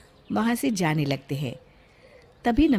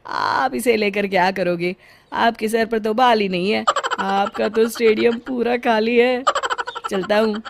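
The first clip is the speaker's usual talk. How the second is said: mocking; 2 semitones higher, 4 dB louder than usual. Comb seller teasing bald Bala.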